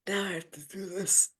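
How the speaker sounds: hushed, whispered resolve; awed whisper. Retold or imitated. Coach reliving the moment she was hooked, awed whisper. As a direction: whisper it like a sudden revelation.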